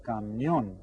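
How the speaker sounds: camión with the weight on the final "ón"; teacher modelling camión, last syllable stressed; stress on accented syllable. Shown as a demonstration. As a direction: lean on the end of camión, voice falling. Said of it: "here's the accented syllable".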